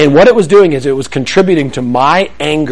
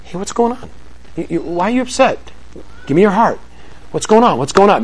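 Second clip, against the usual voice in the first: softer, gentle asking; calm dad; 2 semitones higher, 6 dB quieter than usual. Shown as a demonstration. Dad calmly asking an upset kid what's wrong, gentle. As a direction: stay calm and draw out the kid's heart. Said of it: "That keeps Daddy at zero".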